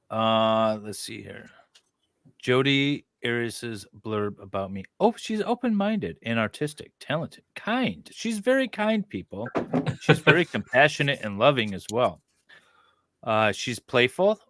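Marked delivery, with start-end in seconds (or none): 5.0-12.2 high, gushing mock-sincere reading; higher sing-song praise of her profile. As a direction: read it like a glowing sales pitch.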